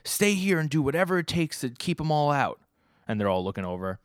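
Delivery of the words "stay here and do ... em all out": voicing President Mike. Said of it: "He's like".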